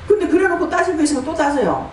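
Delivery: ordinary talk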